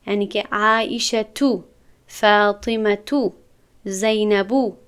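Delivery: عایشه تو، فاطمه تو، زینبو each ending in a short -u without n; single damma ending. Shown as a demonstration. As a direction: slowly model the names ending in one ضمه.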